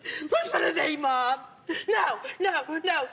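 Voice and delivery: imitating her son's insistent interrupting; lightly mocked badgering, short repeated bursts; in-your-face son. Mother acts out son's outbursts, mock in-your-face insistence. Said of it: "he's like this in your face".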